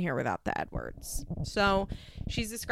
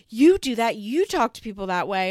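retold angry retort; 3 semitones higher, 7 dB louder than usual. Retold quarrel, Rachel hitting back.

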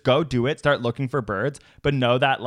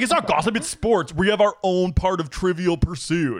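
mock screaming; 4 semitones higher than usual. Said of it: "stop screaming at us".

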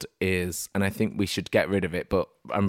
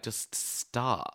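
inviting; 2 semitones higher, 8 dB quieter than usual. Retold or imitated. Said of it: "just to be like".

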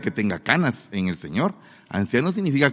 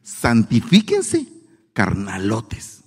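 mocking Moses; 3 semitones lower, much slower than usual. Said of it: "les dijo Moisés".

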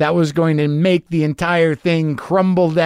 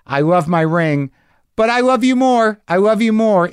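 mimicking fiancée; 6 semitones higher than usual. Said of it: "I hear this a lot".

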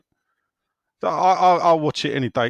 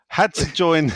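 put-on American accent; 3 semitones higher than usual. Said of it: "I can't do American".

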